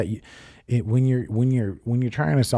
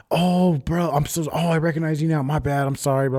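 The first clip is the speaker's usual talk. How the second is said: higher, lightly voiced sheepish apology; apologetic stranger; 8 semitones higher than usual. A hint of the man on the bike apologizing, sheepish and high. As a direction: gush a quick sorry, pitched up.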